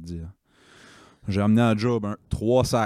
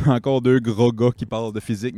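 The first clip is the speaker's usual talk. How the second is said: laughing; 2 semitones higher, 5 dB louder than usual. Real, not acted. Host laughing into intro.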